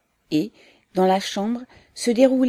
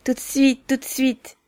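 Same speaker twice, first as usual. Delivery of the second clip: high, brisk-spirited assent; lively, eager reply; 7 semitones higher, 4 dB louder than usual. A narrator's reading. Mother hurries to serve her guest tea, lively. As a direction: answer eagerly, pitch jumping up. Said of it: "dit vivement Pélagé".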